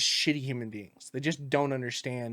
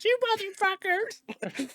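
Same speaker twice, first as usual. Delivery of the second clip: laughing drawn-out curse; slower than usual. Real, not acted.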